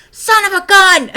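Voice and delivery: hammed-up husband blurting out in amazement; amazed husband. Wife imitating her husband with the hammer, loud laughing amazement. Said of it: "he's like".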